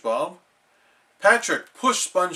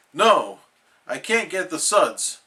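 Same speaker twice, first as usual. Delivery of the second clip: upset cry; 3 semitones higher, 5 dB louder than usual. Acted. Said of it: "cried SpongeBob".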